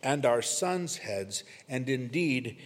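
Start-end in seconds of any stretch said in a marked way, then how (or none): 0.0-1.4 raised, emphatic mock outcry; retold crowd cry. Preacher quoting those calling for crucifixion, mildly raised cry. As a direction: quote the crowd's cry with some force. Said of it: "they're gonna cry out".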